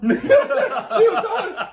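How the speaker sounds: high, slow words squeezed through laughter; cracking up mid-story; helpless laugh; laughing hard. Real, not acted. Laughing while retelling.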